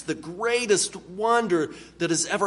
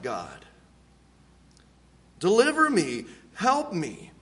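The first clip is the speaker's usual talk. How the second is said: prayer. Acted. Preacher voicing a sinner's prayer to God, earnest plea. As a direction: pray it for them, heartfelt. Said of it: "you would just say to God".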